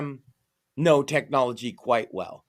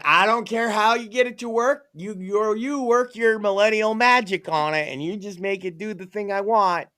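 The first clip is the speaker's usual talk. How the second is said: higher-pitched mock insistence; demanding boomer; 6 semitones higher than usual. Boomer ordering millennial to fix it, mock demand. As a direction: imitate a stubborn, dismissive customer. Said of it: "The boomers are like".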